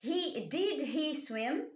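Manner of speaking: did stressed, slow rise; slow question, stressing did; question tune. Shown as a demonstration. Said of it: "É uma pergunta". (pergunta lenta, did acentuado)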